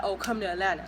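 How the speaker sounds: a careless "come to Atlanta", mocking his tone; mock lazy invite. Mocking the guy's low-effort invite, offhand and flat. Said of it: "Don't be like".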